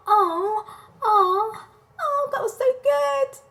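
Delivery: high-pitched mock emotional cooing; squeaky, exaggerated put-on gush; fake gushing. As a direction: coo with phony delight, far above your voice. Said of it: "with these fake ass facial expressions".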